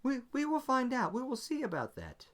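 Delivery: lightly voiced wary officer, keep it tight; officer doubting the prisoner, cool and suspicious. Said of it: "Zoe's like".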